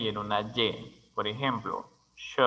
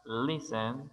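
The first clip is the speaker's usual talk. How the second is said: "listen" with the weight on LIS; stress on first syllable; 7 dB quieter than usual. Shown as a demonstration. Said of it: "énfasis de sonido en la primera sílaba".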